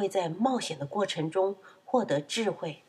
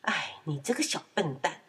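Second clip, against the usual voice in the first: lower, indulgent motherly scolding; exasperated amusement; 4 semitones lower, 4 dB quieter than usual. Acted. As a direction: scold fondly, half cross, half amused. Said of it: "妈妈又气又好笑地说". (又气又好笑地数落)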